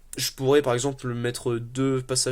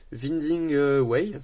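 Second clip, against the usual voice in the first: self-mocking English accent on a card name; 2 semitones higher, 4 dB louder, much slower than usual. Shown as a demonstration. Naming a card to viewers in a mock English accent. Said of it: "vous avez vu mon magnifique accent anglais".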